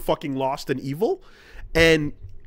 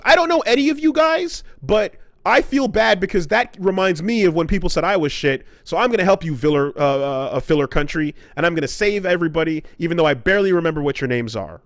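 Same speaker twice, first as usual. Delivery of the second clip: mock Naruto rant; 3 semitones higher, faster than usual. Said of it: "he's yelling at the god".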